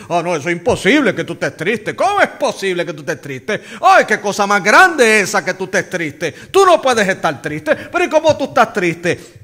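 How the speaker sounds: lightly voiced scolding church lady; mock the tutting legalist's disbelief; a hint of a preachy busybody. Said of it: "los religiosos legalistas ... dicen".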